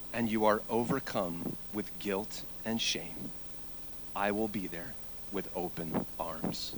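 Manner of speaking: tender Jesus. Acted. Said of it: "Jesus would have said".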